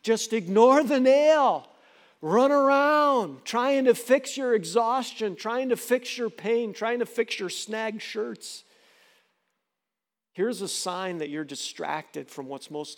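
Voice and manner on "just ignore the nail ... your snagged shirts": lightly voiced devil crowing over a win; preacher voicing Satan, slow and gloating. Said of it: "And Satan is like".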